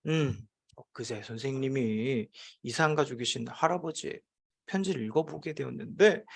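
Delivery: hushed, slightly staged storytelling; teacher putting on gravity; setting a solemn mood. Acted. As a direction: ease into a sad story for effect. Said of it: "분위기를 잡고 이야기를 하죠".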